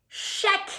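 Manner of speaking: high, loud little shout; child's cry. Acted. Penny joining the checklist, high and eager. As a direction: call it out eagerly. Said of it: "Penny cries".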